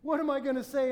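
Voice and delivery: put-on retelling a stunned young man; smitten panic. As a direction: gasp it out like seeing her for the first time. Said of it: "And I looked down and was like".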